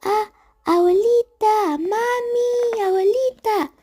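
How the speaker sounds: high frightened yells for mom and grandma; screaming for help. Retold or imitated. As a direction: call out in a panic, high and loud. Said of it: "y comencé a gritar". (gritos de pánico llamando a mamá y abuelita)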